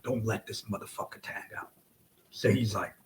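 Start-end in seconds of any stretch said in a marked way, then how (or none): 0.0-1.7 softer, whispered repeat of the order; whispered order at the corner; urgent whisper. Retold or imitated. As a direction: hiss it low so only your partner hears. Repeating instruction to partner.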